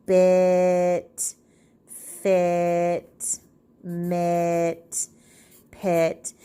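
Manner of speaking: "bit", "fit", "mit", "pit" said slowly, each word separate, stretching the ending "it"; word family sounds. Shown as a demonstration. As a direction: slowly read the rhyming words one by one. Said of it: "So, for instance".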